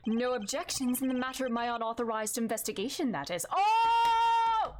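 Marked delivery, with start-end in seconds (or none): 3.5-4.7 loud startled cry; surprised shout. Acted. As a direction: blurt it out in surprise. Sudden outburst in game scene.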